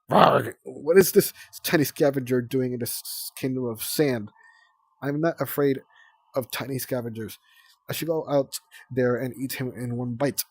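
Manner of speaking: loud, hammed-up monster queen; a small dragon playing a fierce queen; big bad queen. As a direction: growl it like a boastful villain. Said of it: "You're Queen Oasis, the big bad queen".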